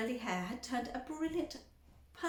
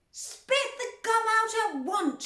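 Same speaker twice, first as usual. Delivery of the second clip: high, loud, slow command; father shouting at Violet; shouted; 12 semitones higher, 8 dB louder, slower than usual. A narrator's reading. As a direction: bark the order. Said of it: "shouted Mister Beauregard".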